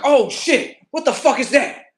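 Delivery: high, loud voice of an alarmed cat; startled cat. Retold or imitated. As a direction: act out a cat spooked by noise. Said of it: "Cats be like".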